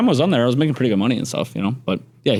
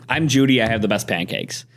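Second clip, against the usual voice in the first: put-on Judy's Asian accent. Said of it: "she's, has a thick A-, the Asian accent".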